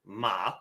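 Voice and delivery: long "ma" on a flat, low pitch; low, even "ma"; first tone. Shown as a demonstration. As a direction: hold "ma" level right to the end. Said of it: "stays flat and even throughout".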